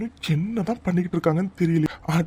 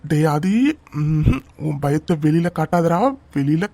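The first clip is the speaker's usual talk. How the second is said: self pep talk; 4 semitones lower, 3 dB louder than usual. Acted. Groom steeling himself.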